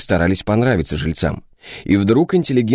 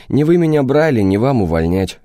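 smirking insolence; 3 semitones higher than usual. Acted. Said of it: "ухмыльнулся наглец".

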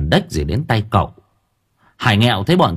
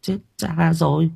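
dismayed; 7 semitones higher, 4 dB quieter than usual. Acted. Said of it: "ớ lên".

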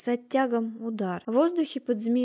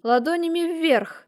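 a louder barked order; sharp demand; 5 semitones higher, 5 dB louder than usual. A narrator's reading. Margrave ordering the craftsman to show palms, firm demand. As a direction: command him, no room to refuse. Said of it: "потребовал маркграф".

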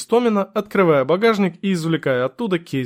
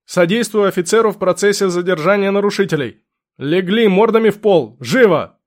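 higher, louder shouted order; 4 semitones higher, 4 dB louder than usual. Acted. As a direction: yell the command across the street. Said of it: "громко крикнул".

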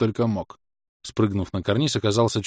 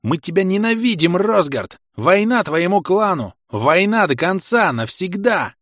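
high, loud, slow hateful war cry; fierce howl; 9 semitones higher, 5 dB louder than usual. A narrator's reading. Enemy players howling war at Rosgard, fierce cry. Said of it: "Лютый крик вой заполнил".

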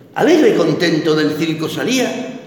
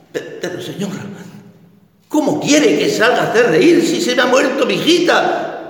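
normal talking voice

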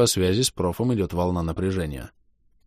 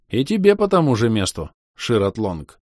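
snarling goblin; 4 semitones higher, 4 dB louder than usual. Acted. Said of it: "оскалился гоблин".

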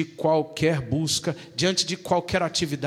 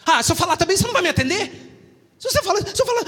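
whiny complaint; 7 dB louder, much faster than usual. Acted. Whiny protest at being told speak.

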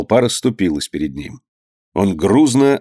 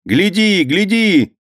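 high-pitched urgent cry; excited boy; 10 semitones higher, much slower than usual. Acted. Boy shows his friend the boat, excited cry.

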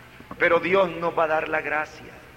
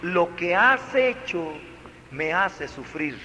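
gentle wording; 3 semitones lower than usual. Shown as a demonstration. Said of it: "No, le dijo".

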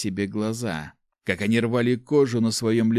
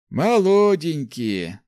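higher, louder, slow relish; leering old man; 7 semitones higher, 6 dB louder, much slower than usual. Acted. Old man eyeing the girls, slow and leering. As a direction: savor the word like an old lecher. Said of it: "заметил голос рядом".

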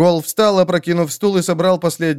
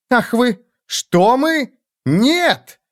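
flustered; 9 semitones higher, much slower than usual. Acted. Flustered king denies loudly.

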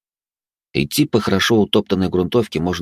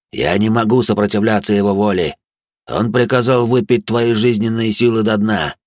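eerie ghost voice; 2 semitones higher than usual. Acted. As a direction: warn him like a doomed spirit. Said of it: "Потусторонним голосом".

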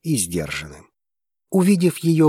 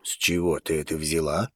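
low, quiet question; 6 semitones lower, 6 dB quieter than usual. Acted. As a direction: ask it softly, hushed. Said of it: "тихо спросил Зейн".

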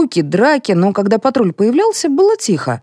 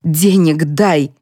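demanding; 2 semitones lower, much slower than usual. Acted. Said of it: "потребовала скандалистка".

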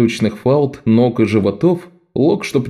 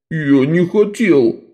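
higher, slow whine; higher, slow childish whine; whining boy; 6 semitones higher, slower than usual. A narrator's reading. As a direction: whimper like a guilty little boy. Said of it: "заныл Беззуб".

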